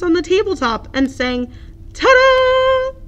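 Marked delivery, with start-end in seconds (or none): 1.9-3.0 high, loud triumphant ta-da; showy ta-da. Acted. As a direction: present it with a flourish. Duck dancing finale.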